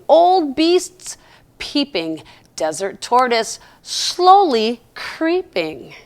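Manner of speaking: slow, gentle rhyming read; poem reading. Acted. Reads a rhyming poem aloud.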